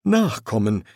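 a touch of bitterness; bitter. Acted. Dead father giving advice on children, mildly bitter. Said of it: "sagte er bitter".

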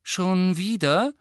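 high, loud, drawn-out question with an irritated edge; slightly irritated. A narrator's reading. Grandmother to her daughter-in-law holding something out yet again, slightly irritated. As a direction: let mild annoyance show in a rising question. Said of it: "mit leicht gereiztem Unterton".

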